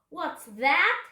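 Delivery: pirate captain's sharp, high demand; startled shout. A narrator's reading. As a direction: shout it in sudden alarm. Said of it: "he shouted".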